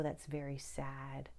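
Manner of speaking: hushed sad whisper. Real, not acted. Lamenting to viewers, whispered. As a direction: breathe it softly in regret.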